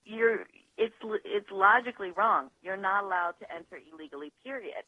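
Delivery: usual speaking voice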